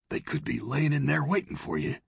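mildly anxious, high-pitched saloon owner; anxious warning. A narrator's reading. Saloon owner warns lawmen of ambush, anxious. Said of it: "narrowed an anxious eye and said".

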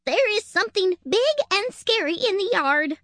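high, breathless panic; panicked. Acted. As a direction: gasp it out in a panic. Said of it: "out of breath and in a panic".

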